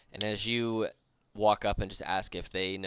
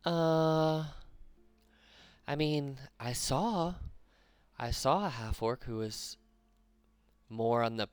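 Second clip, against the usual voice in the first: a lightly higher hobgoblin voice, unsure; Urduk answering; 5 semitones higher, slower than usual. Acted. Urduk tells the party what he saw, lightly higher. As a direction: recall it hesitantly as another goblin.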